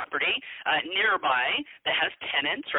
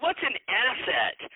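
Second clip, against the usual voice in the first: lightly voiced little boy, higher and slow; puzzled child; 6 semitones higher, slower than usual. Dad retelling his five-year-old's question, lightly imitated puzzlement. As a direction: draw out the question like a puzzled kid.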